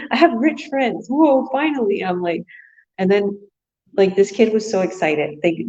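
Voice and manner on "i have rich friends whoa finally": put-on amazed kid.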